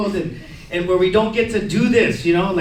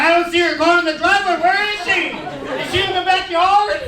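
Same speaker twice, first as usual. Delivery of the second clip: lightly acted, higher-pitched thirteen-year-old; raised pitch, naively puzzled; clueless teen; 8 semitones higher than usual. Thirteen-year-old idiot checking the window, clueless.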